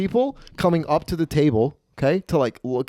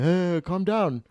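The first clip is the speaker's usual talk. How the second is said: a slow, slightly high plea; hint of a timid mock voice; lightly voiced meek bystander; 4 semitones higher, slower than usual. Howard to rowdy gambler, slow mild pleading. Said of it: "little Asian guy just being like".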